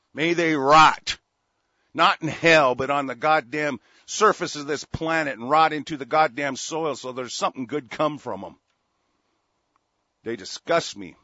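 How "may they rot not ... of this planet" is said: angry curse. Real, not acted. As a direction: drag it out as a loud curse. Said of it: "I'm kinda pissed off".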